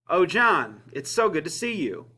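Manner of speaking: sarcastic welcome with falling tones. Shown as a demonstration. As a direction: greet them as if not that glad to see them. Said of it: "the second one is I'm being sarcastic".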